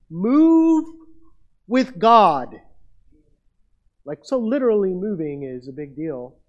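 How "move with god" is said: loud, high shout on Move; shouted command. Real, not acted. Preacher urging the fearful congregation, shouting. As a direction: belt it out like a rally cry.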